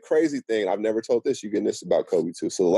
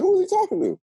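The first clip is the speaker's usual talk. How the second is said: high, laughing who-me question; laughing disbelief. Retold or imitated. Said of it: "I'm like".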